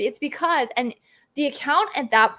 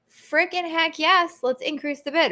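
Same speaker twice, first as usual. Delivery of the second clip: mock gleeful brand; 5 semitones higher than usual. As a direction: ham up a brand greedy for bids. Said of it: "They go".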